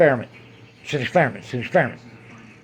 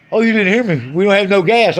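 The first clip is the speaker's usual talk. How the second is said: mock cashier; 3 semitones higher, 4 dB louder than usual. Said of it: "she said".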